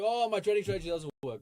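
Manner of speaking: mock complaint. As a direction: lightly mimic a trader blaming the strategy. Mimics a trader complaining after losing.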